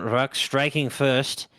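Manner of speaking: a hint of British accent, unhurried. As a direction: call it like a British commentator, lightly. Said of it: "I went into a British accent there".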